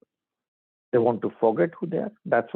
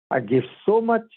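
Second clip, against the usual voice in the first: mock outburst; 8 semitones higher, 4 dB louder than usual. Grieving old billionaire, a hammed-up outburst. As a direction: voice jumps up in a hammed-up complaint.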